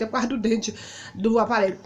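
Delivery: ordinary talk, nothing marked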